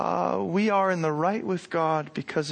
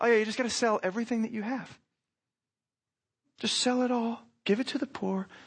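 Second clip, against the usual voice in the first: mock breezy, offhand, nonchalant casual delivery; 5 semitones higher than usual. Acting out Jesus speaking to a man in a sermon: imitating Jesus nonchalantly. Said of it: "almost nonchalantly Jesus is".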